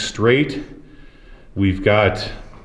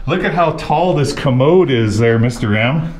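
amazed; 4 semitones higher, 4 dB louder than usual. Real, not acted. Amazed at the huge commode.

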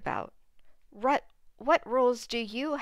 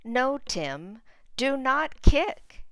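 higher, louder, slow mock scolding on "do not kick"; scolding mom; 5 semitones higher, 6 dB louder, slower than usual. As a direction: play the stern mom, hammed up for kids. Mom scolds Tim in story.

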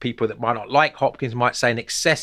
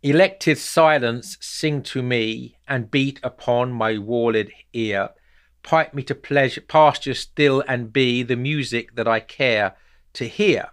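poem reading. Shown as a demonstration. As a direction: read it aloud as a poem, lingering on the beats. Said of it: "I'll just read the first stanza".

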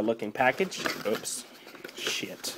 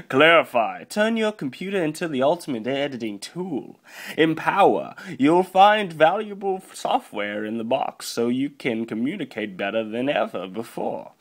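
hammed-up product pitch, raised pitch; put-on advert voice; 2 semitones higher than usual. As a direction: read the box like a mock commercial. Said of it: "I like this voice now".

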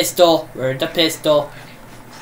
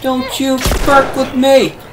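desperate shout; 4 semitones higher than usual. Real, not acted. Player grabbed by a zombie, desperate slow shout. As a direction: yell for help while struggling.

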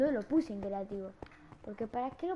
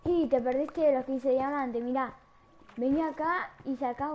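excited shout; 2 semitones higher, 5 dB louder than usual. Real, not acted. Loudly calls Nico over.

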